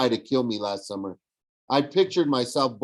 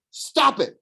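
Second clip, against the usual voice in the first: much higher, loud pleading shout; 5 dB louder than usual. A narrator's reading. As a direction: cry out to make him stop. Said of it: "she shouted".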